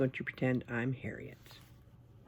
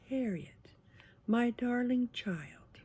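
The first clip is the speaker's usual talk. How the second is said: restrained mother; 9 semitones higher than usual. A narrator's reading. Mother to Harriet after spilled juice, restrained and high-pitched. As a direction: sing it out higher instead of yelling. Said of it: "did not like to yell".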